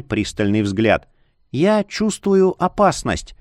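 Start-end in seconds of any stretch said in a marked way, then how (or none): 1.5-3.3 a sighing, uneasy witch's voice; whispery telepathic voice. A narrator's reading. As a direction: sigh it out, uneasy. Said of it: "ответила Снеженика и вздохнула". (встревоженный голос колдуньи со вздохом)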